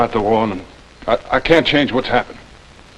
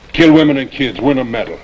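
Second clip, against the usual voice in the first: bitter outburst; 4 semitones higher, 3 dB louder than usual. Acted. Scout attacks captain's cruelty.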